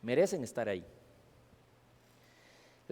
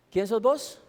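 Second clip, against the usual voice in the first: raised, louder voice of God the judge; God's stern question; 6 semitones higher, 4 dB louder, slower than usual. Acted. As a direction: ask it as God demanding an answer. Preacher voices God at judgment.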